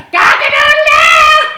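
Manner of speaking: high, loud jeering rooster crow; mock rooster crow. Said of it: "let's hear that little hen crow like a rooster".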